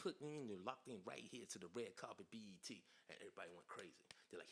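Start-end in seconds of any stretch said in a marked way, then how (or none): 0.0-2.8 lightly imitated TV host patter; a hint of a red-carpet presenter; Big Tigger. Redoing his red carpet audition word for word, light host imitation. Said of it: "he's got this little thing in his voice".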